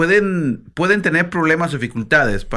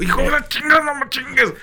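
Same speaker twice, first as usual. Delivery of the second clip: high-pitched mock cursing, like a hurt Mexican; Mexican cursing outburst; 11 semitones higher than usual. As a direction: yelp out the curse in a put-on voice. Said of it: "en México". (grito de dolor mexicano, imitado y agudo)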